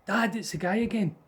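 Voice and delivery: put-on a child begging dad for help; scared child. Child telling dad the ghost is back, frightened plea. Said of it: "I was going".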